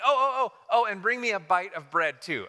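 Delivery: pushy afterthought, playfully voiced; mock afterthought. Elijah calling back to the widow, mock afterthought. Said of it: "Elijah's like".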